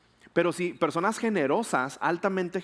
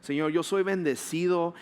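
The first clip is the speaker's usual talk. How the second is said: declarative prayer. Shown as a demonstration. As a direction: pray it out as a confident declaration. Leads the congregation in declarative prayer.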